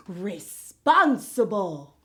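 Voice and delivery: "responsible" said slowly, each syllable clear; word presented slowly. Shown as a demonstration. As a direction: draw out "responsible" for the kids. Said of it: "the word of the day is".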